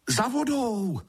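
high, drawn-out call; loud answer. A narrator's reading. Two water sprites calling over screeching birds, loudly. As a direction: call it out over the bird noise. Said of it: "odpověděli oba hlasitě".

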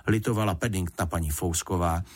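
ordinary delivery

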